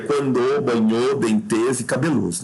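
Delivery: "quando, banhou, dentes e cabelos" each stressed on the last syllable; wrong final stress. Shown as a demonstration. Teacher shows the absurd last-syllable stress, "quando, banhou, dentes e cabelos" all end-stressed. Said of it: "possuem a última sílaba tônica".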